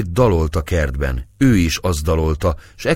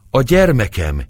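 mother crying out higher and louder; 6 semitones higher, 4 dB louder than usual. A narrator's reading. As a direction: call out for her child in alarm. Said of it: "kiáltott rá Éva".

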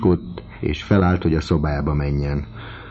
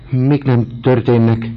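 astonished exclamation; 7 semitones higher, 5 dB louder than usual. A narrator's reading. Fat Sylvie blocks the door.

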